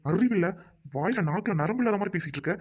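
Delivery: flaring up at his new wife; angry outburst. Acted. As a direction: snap it at her in disbelief. Husband scolds wife mid-quarrel.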